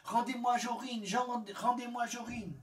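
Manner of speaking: high, loud desperate plea; pleading. A narrator's reading. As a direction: beg her at the top of your voice. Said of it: "il la supplia".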